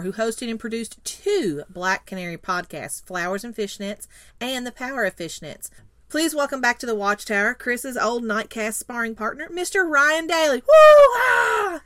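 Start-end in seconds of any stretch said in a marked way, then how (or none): 6.1-11.8 big welcome, rising to a shouted cheer; hyped guest introduction. Real, not acted. Co-host brings on the returning guest, hyped and cheering. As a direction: build to a high, loud whoop.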